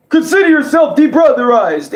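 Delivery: Luigi impression. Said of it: "let me do my Luigi impressions".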